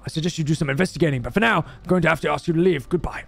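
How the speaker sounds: lightly voiced homeowner, quick and firm; protective homeowner. Homeowner asking the officer to leave, firm and hurried. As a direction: hurry the officer off politely.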